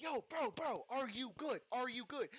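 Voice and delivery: high-pitched anxious checking; urgent concern. Retold or imitated. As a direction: fire repeated questions, alarmed and high. Urgently checking on thrashing friend.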